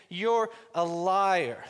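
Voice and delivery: each word slow and weighty; slow accusation. Acted. Pastor voicing the Pharisee, slow and accusing. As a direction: lay the charge out slowly, word by word. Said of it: "for someone to stand up and say".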